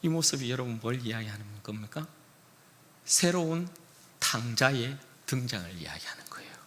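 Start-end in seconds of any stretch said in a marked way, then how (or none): 3.0-6.5 whispered 탕자의 등장을, set up softly; hushed. Shown as a demonstration. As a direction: breathe it as a secret. Repeated line, first hushed.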